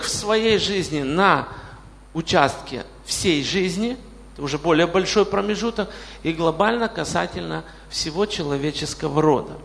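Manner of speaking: ordinary talk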